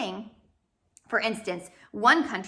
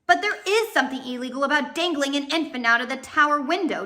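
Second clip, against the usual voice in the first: indignantly; 4 semitones higher, 4 dB louder than usual. Acted. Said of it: "Justice Strauss said indignantly".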